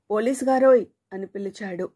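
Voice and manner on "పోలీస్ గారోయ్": a sudden loud call, pitched up; panicked shout. Acted. Subbayya yells after the departing policeman, panicked loud call. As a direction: yell out to stop him in a panic. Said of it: "అది పిలవడం కాదు, అరవడం".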